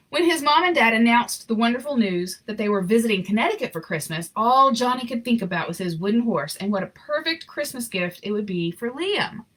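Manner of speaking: gentle read-aloud storyteller voice; story narration. A narrator's reading. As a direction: read it like a bedtime picture book. Reading picture book aloud.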